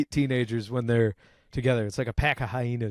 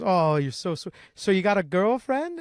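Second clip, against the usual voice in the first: sweet, higher coaxing voice; kindly; 5 semitones higher than usual. Retold or imitated. Older lady chatting up a teenager at a wedding, mock kindly. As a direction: imitate a nice older lady being kind. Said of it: "starts talking to him very kindly".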